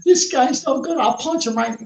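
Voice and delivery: high, whiny mocking De Niro; mock De Niro crying. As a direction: whine it out like a blubbering actor. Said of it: "De Niro crying".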